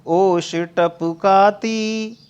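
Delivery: slow, drawn-out verse recital; poem recitation. Acted. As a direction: recite the verse slowly, weighing each word. (धीमा, खिंचा हुआ काव्य पाठ)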